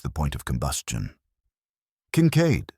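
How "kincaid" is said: Wolf's voice. Acted. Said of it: "Wolf said".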